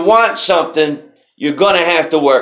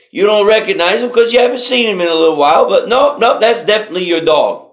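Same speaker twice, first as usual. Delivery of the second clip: higher, hurried mock-panicked insistence; flustered insisting; 3 semitones higher than usual. Baggage handler insists to the owner, flustered and fast. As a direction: talk him out of it fast, a bit panicked.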